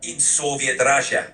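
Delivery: a hint of a Russian accent, stern; lightly voiced Soviet spy, tough; Moscow accent. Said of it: "put on a really thick Moscow accent".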